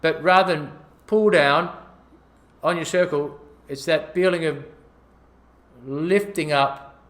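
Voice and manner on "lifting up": exaggerated lift. Shown as a demonstration. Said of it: "exaggerate it".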